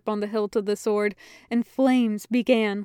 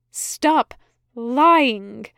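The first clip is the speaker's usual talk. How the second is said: angry shout; 2 semitones higher, 7 dB louder than usual. A narrator's reading. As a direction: snap at the liar with the sword raised. Aziraphale confronts Crowley.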